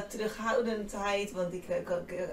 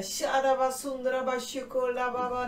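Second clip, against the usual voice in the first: mock burst of tongues, raised pitch; loud tongues, imitated; 5 semitones higher, 4 dB louder than usual. Wife imitates her husband bursting out in tongues, raised and insistent. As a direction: rattle off the syllables high on one level, imitating him. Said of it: "En echt knoerhard".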